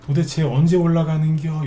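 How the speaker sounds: playful Chungcheong accent, lightly put on; Chungcheong dialect. A stock host voicing a patient small-cap investor in a Chungcheong accent. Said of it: "방금 이게 충청도 사투리입니다".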